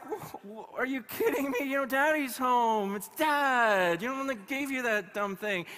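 loud, high, hammed-up jealous dad; a dad outraged his girl picked the cat; mock indignation. Dad's jealous indignation acted out.

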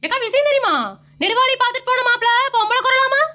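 high eager gossip; lightly voiced gossiping caller. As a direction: spill the news breathlessly high. Caller voice on speakerphone.

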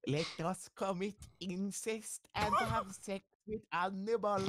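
high joking peasant voice; mock yokel voice. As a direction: play a dumb villager.

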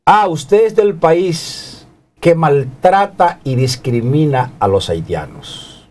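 slow, drawn-out retold accusation starting high; picking a fight. Stranger in elevator accusing a Dominican, slow mock confrontation. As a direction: imitate a man spoiling for a fight, word by word. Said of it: "quiere es meterse en bronca conmigo por el estilo y la forma como me lo dice".

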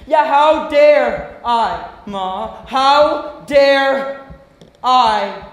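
slow, indignant reproach; bitter anger. Acted. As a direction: throw it back at her slowly, word by word. Acted quarrel with mother.

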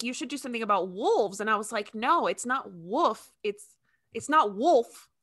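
ordinary delivery

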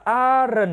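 "aren't" with the R curled out into a second syllable, "a-ren". Shown as a demonstration. Teacher shows students the R in "aren't", curled out. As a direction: roll out the R in "aren't". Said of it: "người ta uốn cái chữ R này ra".

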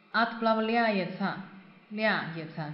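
slow Отправляется with the stress on the я of ляется; teacher repeating ляется to show the stress. Shown as a demonstration. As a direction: drag out Отправляется and lean on я. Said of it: "重音在这个я上面".

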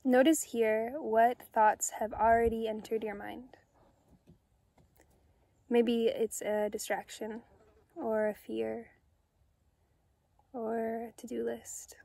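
calm, unhurried meditation guide with long pauses; soothing, measured guided-meditation delivery. Acted. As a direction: gently guide listeners inward, leaving space after each phrase.

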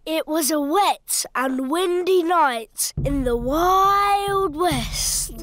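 low spooky story voice; spooky storyteller. Acted. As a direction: tell it to give a shiver. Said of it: "Make it scary".

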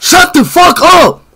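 real furious swearing; angry outburst. Real, not acted. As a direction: blow up in frustration. Streamer raging at spamming chat.

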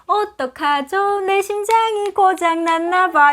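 put-on Gyeongsang accent. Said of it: "경상도 사람이".

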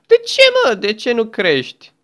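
high, loud yell at the egg; frustrated shout. Real, not acted. Player yelling at a stubborn egg, frustrated shout. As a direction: burst out in real frustration.

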